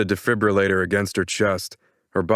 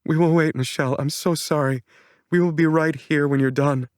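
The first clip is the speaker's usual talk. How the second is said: higher, gentle motherly voice; comforting mother; 8 semitones higher than usual. A narrator's reading. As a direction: soothe her like a mom. Mom voiced comforting daughter.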